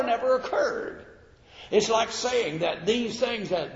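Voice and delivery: high-pitched, insistent pulpit argument; forceful preaching. Real, not acted. Preacher rebuts doubters of the miracles, forceful preaching.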